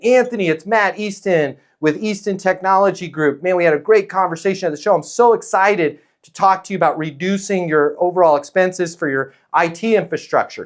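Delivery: upbeat, quick sales-pitch patter; a breezy, rushed pitch on the phone; eager sales pitch. Shown as a demonstration. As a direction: sell it hard like a cheesy salesman. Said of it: "Sales pitch".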